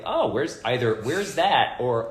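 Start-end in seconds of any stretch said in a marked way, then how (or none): 0.0-0.6 high, loud curious question; curious surprise. Retold or imitated. Traveler quoting people abroad, curious high surprise. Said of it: "people are like". 1.0-1.8 high, loud curious question; curious surprise. Retold or imitated. Traveler quoting people abroad, curious high surprise. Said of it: "people are like".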